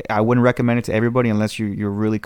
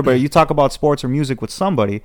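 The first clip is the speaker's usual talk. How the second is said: ordinary talk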